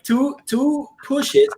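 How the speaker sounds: high, slow, drawn-out imitation of the nurse; mock nurse voice. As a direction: stretch it out in a lightly mocking high voice. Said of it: "they were like".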